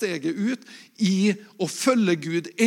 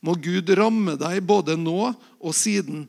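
Bible story read aloud with lightly voiced dialogue; scripture reading. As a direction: tell the calling of Samuel to the congregation. Pastor reads 1 Samuel 3.

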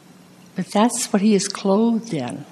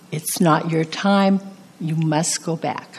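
gentle voice. Retold or imitated. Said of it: "his voice said very gently".

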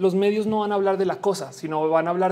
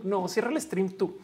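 slower, "no, cierra el stream tú" drawn out softly; soft giggly late night call; 4 dB quieter than usual. Pretend. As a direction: coo it, lingering on the goodbye. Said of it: "no quiero colgar".

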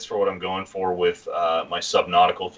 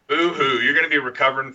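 fake crying; 6 semitones higher than usual. Mocking friend's wedding recovery.

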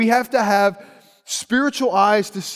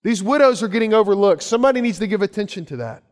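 mock alarm. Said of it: "and they say".

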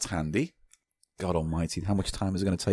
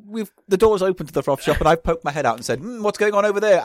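posh voice, pitched higher; 8 semitones higher, 3 dB louder than usual. Acted. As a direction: play the pompous posh gent. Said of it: "you're doing a posh voice".

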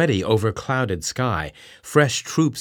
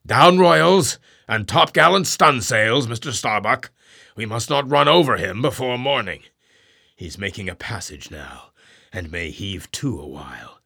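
captain's orders. Acted.

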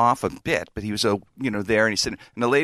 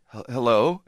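tentative, questioning hello with a stumble; hesitant greeting. Retold or imitated. Tenant greeting a half-naked stranger upstairs, hesitant. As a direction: greet warily, as if unsure. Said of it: "I go".

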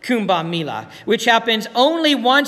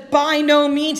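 NO hit high and loud in "By no means."; preacher stresses "no" firmly; emphatic; 6 semitones higher, 4 dB louder, slower than usual. Shown as a demonstration. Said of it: "It's an emphatic exclamation point".

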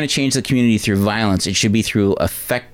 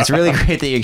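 put-on laughing retry at a Latina accent; higher, amused stab at Latina accent; attempted Latina accent; 4 semitones higher, faster than usual. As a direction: have another go at mock Latina. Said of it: "Latina lady".

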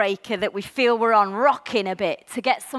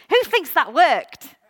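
laughing question; 5 semitones higher, 3 dB louder, slower than usual. Real, not acted. Rhetorical question, congregation laughs.

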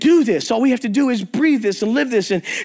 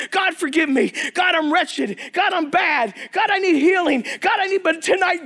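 retold fervent prayer; 6 semitones higher than usual. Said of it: "He's like".

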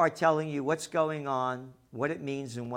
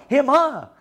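louder jeering him, her; mocking again; 9 semitones higher, 10 dB louder than usual. Real, not acted. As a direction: spit out "Him, her" with scorn, "her" stressed.

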